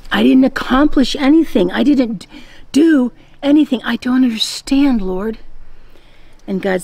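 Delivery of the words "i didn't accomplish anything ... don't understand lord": higher-pitched, mock-bewildered objection; exasperated protest. Young man objects to God that he achieved nothing, exasperated protest. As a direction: protest in disbelief, voice jumping up.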